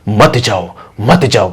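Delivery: spirit's repeated warning. Acted. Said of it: "पीछे से लगातार उस प्रेत की".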